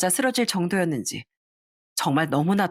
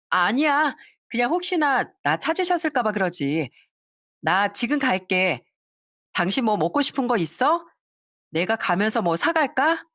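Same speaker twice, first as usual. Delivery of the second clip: higher, sugary wife's voice; sweetly covering; 4 semitones higher than usual. Acted. Wife sweetly covering up to her husband on the phone.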